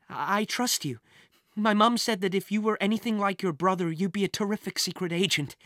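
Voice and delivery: put-on mildly earnest girl; lightly voiced earnest Kate. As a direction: confide trustingly, a touch hesitant. Kate confiding in Jack.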